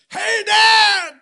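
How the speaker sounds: high, loud shout across the yard; little boy yelling to his dad; child calling out. Retold or imitated. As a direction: call out to dad from far away. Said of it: "all of a sudden Finn goes".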